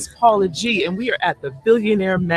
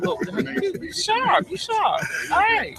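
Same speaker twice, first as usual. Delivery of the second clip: playful teasing; 13 semitones higher, 4 dB quieter, slower than usual. Real, not acted. Host teasing guest's outfit.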